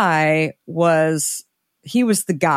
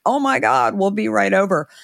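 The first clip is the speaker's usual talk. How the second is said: eager rush; 4 semitones higher than usual. Retold or imitated. Boss coming, shelf space offered.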